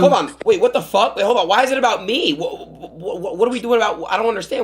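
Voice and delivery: high, flustered what-the-fuck; shocked disbelief. Real, not acted. Friend accused on stream, shocked and flustered. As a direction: caught off guard, laughing in protest. Confused outburst about gay claim.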